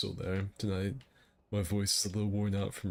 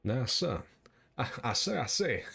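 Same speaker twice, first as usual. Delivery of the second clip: southern blowhard; 3 semitones higher than usual. Acted. Blustering southern rooster bit.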